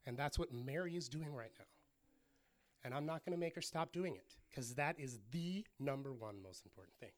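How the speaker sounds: gently voiced, imitated reassurance; a touch of kindly, patient correction; nice and kind. Jesus kindly answering worried Martha, gentle. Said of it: "Jesus is so nice, and he's kind".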